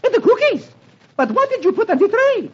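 high shocked French maid; startled maid. Acted. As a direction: gasp it out in alarm. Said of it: "The maid, startled, exclaims".

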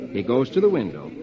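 ordinary delivery

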